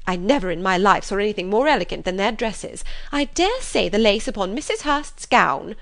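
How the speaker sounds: loud, high, breathless gush; gushing mother. Acted. Mother rushing in to tell her husband, loud gushing. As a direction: burst in overflowing with news. Mrs Bennet gushes again.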